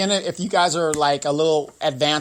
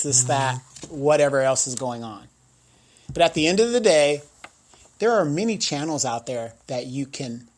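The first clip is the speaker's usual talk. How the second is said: measured statement with weighty pauses; deliberate formal address; slower than usual. Real, not acted. Host answering the offended viewer about his vernacular, deliberate and firm. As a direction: state your position slowly and firmly, word by word. Delivers a prepared-sounding defence to viewers.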